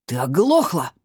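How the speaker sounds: husband shrieking at his wife; shrill yell. A narrator's reading. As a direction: yell at his wife who won't answer. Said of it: "взвизгнул Пётр".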